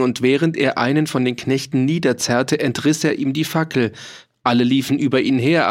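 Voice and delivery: ordinary delivery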